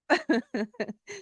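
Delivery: high giggle after the joke; real giggle. Real, not acted. Still laughing at the joke.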